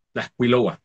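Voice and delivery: Tlaxcuiloa with the full tla- syllable; teaching the Huasteca form Tlaxcuiloa; Nahuatl word said aloud. Shown as a demonstration. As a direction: say Tlaxcuiloa slowly and clearly, tla-x-cui-lo-a. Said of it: "en la Huasteca se dice".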